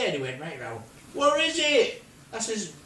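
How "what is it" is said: high, loud yell back; shouted reply. Retold or imitated. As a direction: holler back from a distance. Flying man shouts back.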